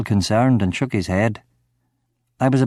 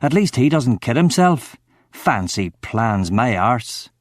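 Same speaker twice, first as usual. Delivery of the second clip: snarling. Acted. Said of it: "snarled at him".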